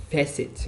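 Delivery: "facet" with the first syllable stronger; first-syllable stress. Shown as a demonstration. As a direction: lean on the opening syllable of "facet". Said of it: "louder sound".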